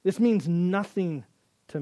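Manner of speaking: slow, disdainful rejection; slow scornful refusal. Retold or imitated. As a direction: spit it out slowly in contempt. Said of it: "with that same attitude to say".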